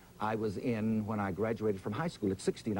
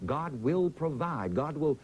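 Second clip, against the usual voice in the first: preaching. Retold or imitated. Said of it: "I began to preach to people".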